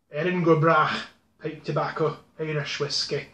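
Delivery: badly faked Irish accent; poor Irish accent. Reviewer reading a tobacco label aloud, poor Irish accent. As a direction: attempt a rough, incorrect Irish accent. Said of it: "my Irish is a little incorrect".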